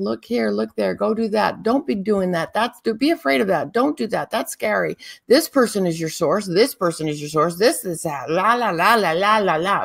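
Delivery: chattering on and on, one command tumbling into the next; nagging inner voice. Acted. A teacher mimics the constant voice in our heads, nagging chatter. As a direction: rattle it off in a quick, run-on stream. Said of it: "there's this voice, and it's constantly saying".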